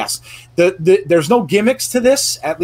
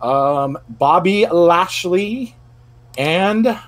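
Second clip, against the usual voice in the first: slow, drawn-out mock Scottish announcer; a clumsy Scottish accent stretched out slow; bad Scottish accent; slower than usual. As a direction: ham up a Scottish ring announcer, badly. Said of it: "that was a really bad accent".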